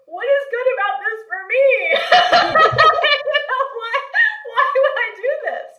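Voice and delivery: incredulous laugh. Retold or imitated. Retelling her reply to the CEO, high incredulous laughter. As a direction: squeal it out as a laughing protest. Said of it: "And I'm like".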